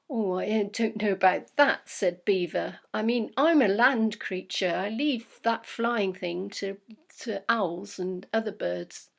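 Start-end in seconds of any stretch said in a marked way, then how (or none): 0.1-1.9 a louder, lightly voiced wary beaver; hesitant beaver. Beaver nervous about climbing on owl's back, lightly voiced. 2.9-9.1 a louder, lightly voiced wary beaver; hesitant beaver. Beaver nervous about climbing on owl's back, lightly voiced.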